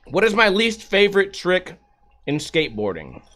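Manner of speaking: chewing noises while talking. Real, not acted. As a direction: talk through a mouthful of wing. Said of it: "You guys like this chewing noises?".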